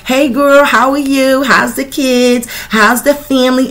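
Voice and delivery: high, sugary two-faced voice; mock the fake coworker's sweet hello; fake friendly greeting.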